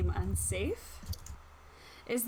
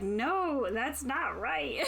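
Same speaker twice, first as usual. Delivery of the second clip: stubborn flake voice; 4 semitones higher, slower than usual. Pretend. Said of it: "I'll be like".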